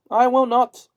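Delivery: high, loud cackly refusal; witch retorting. A narrator's reading. Wicked witch refuses Dorothy, high and loud. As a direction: refuse her flatly, a spiteful old witch. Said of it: "retorted the witch".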